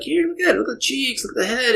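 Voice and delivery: put-on high childlike voice, eager; little girl voice. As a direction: play the four-year-old daughter. Dad voices young daughter.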